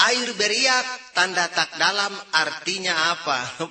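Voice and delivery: proverb recited phrase by phrase; slow recitation. Acted. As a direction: recite it carefully like a pupil. Child slowly recites proverb homework.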